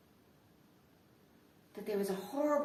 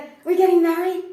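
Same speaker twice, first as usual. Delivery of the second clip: much higher and much louder; near-shouted question; 7 semitones higher, 14 dB louder than usual. Retold or imitated. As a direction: yell the demand at full pitch. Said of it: "And he'd be like".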